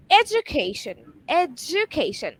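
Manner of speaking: EDUCATION said with a clear j sound, "ed-ju-KAY-shun"; correct pronunciation. Shown as a demonstration. Teacher giving the example word to learners, correct pronunciation. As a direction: say EDUCATION carefully with a j after the d. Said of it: "we can just know the correct pronunciation".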